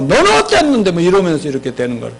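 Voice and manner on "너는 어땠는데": mock retort, jumping up high; counter-attack. Blamed spouse hits back, counter-attacking. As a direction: act out hitting back defensively. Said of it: "공격거리가 나오고".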